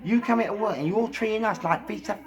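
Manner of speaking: high-pitched outraged rant; absolutely mad. Retold or imitated. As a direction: rage at him, voice pitched right up. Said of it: "I went absolutely mad".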